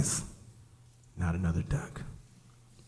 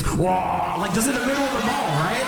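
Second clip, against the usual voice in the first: much higher, fast rant; high rapid aside; excited disbelief; 11 semitones higher than usual. Real, not acted. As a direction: spill it out incredulously. Incredulous aside.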